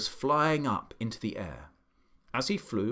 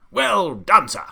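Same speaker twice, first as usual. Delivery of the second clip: higher, much louder praise; delighted shout; 8 semitones higher, 12 dB louder, slower than usual. A narrator's reading. The Duke cheering the pelican, shouting with delight. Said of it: "shouted the Duke".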